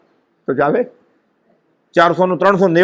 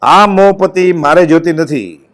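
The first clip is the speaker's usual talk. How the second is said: slow, raised-voice retold refusal; emphatic rejection; 5 dB louder, slower than usual. Disciple throws off his mohpati before his master, emphatic rejection. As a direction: push it out loudly and slowly, as the disciple.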